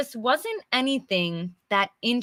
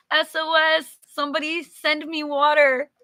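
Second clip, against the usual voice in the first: playful plea; 6 semitones higher than usual. Pretend. Playful call for water.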